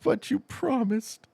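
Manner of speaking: high, drawn-out mock plea; imitated pleading. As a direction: stretch it out like a let-down viewer. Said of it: "He's like".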